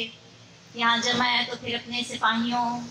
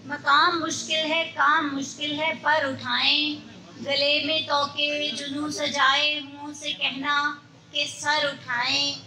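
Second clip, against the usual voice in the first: measured Urdu mushaira recital; poetry recitation; 2 semitones higher than usual. Acted. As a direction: recite verse in long, even phrases.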